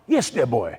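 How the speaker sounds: mock posh accent; Mark Cox. Tennis coach answering the researcher, mock posh. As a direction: put on a very posh chap's greeting. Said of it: "he's a very posh chap".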